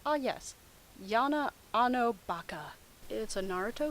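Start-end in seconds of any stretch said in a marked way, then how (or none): none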